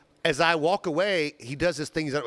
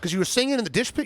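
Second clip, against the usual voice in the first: much higher, disbelieving question; incredulous challenge; 8 semitones higher than usual. Retold or imitated. Host retells confronting the dishwasher over a threat, incredulous. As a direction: throw the threat back in disbelief.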